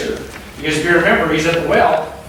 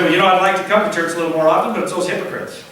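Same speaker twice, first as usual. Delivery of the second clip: imitating an excuse; much faster than usual. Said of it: "some people say".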